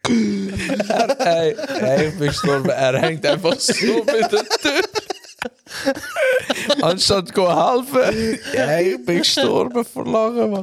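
talking through laughter; laughing hard while telling. Real, not acted. Recalls friend stuck on door.

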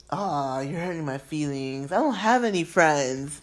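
a lightly played pitiful drunk; mock hurt. Voicing the drunk man's reply.

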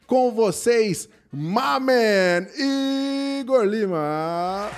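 booming host intro, drawn-out name; grand entrance announcement. Acted. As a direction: announce the guest like a ring announcer. Introducing guest like a show.

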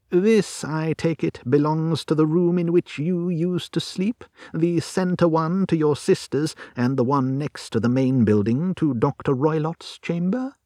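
probing, methodical detective; Holmes questioning. Acted. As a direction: play an investigator checking his deductions. Narrator voices Holmes questioning client.

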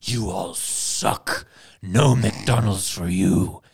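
slow, drawn-out mock taunt; McDonald's as a scolding voice. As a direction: put on a big slow voice of refusal. Voicing McDonald's scolding Russians.

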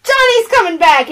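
high-pitched urgent warning; acted flustered news; retold alarm. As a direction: warn in mock panic. Acted mother-daughter quarrel.

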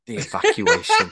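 breaking into a high laugh mid-line. Real, not acted. Alan cracks up mid-line in the scene. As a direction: corpse on the word, laughing through it.

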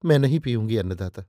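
mildly distressed, plaintive refusal; understated piteous entreaty; anguished plea. A narrator's reading. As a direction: plead with a touch of anguish, voice falling away. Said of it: "मैंने कातर कंठ से कहा".

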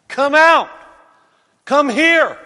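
king shouting into the fire; king calling out. Acted. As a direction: call them out of the furnace.

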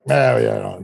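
grumbled dismissive mumble; kinda grumpy. Retold or imitated. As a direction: lightly imitate a grumpy drunk at the bar. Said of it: "just kinda grumpy".

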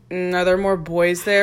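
flat, bored question; monotone. Retold or imitated. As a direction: ask it with no interest at all. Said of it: "so, like, monotone".

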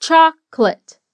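Chocolate said as two syllables, CHOK-let. Shown as a demonstration. Teacher showing English Chocolate as CHOK-let. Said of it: "a palavra soa como duas".

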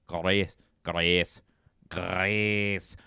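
"Grace" with rolled R and pure vowel; Scottish pronunciation. Shown as a demonstration. Demonstrating "Grace" in Scottish, rolled R. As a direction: roll the R in "Grace". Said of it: "is pronounced".

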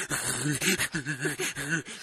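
stuttering mock sobs through the nose; imitated sobbing. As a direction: act out helpless, hiccupping crying. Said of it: "Sobbing through it".

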